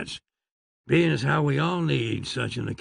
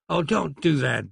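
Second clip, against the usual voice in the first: begging. Acted. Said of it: "begged the Doctor".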